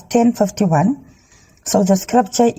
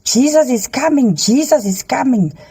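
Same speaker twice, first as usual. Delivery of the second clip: mild mock shout, raised in pitch; retold shout; 5 semitones higher than usual. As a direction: imitate a heavenly voice calling out, without real volume. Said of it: "I heard a voice shouting from the sky".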